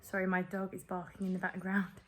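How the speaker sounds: strained, sore-throat speech; painful throat voice. Real, not acted. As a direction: talk through a painful throat. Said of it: "still really painful, to swallow and to talk".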